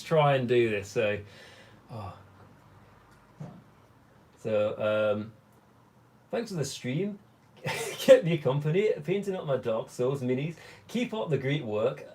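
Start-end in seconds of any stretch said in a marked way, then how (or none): 6.3-12.0 laughing attempt at a Glaswegian accent; bad Glaswegian accent. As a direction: have a go at Glasgow speech and do it badly. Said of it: "that was really bad".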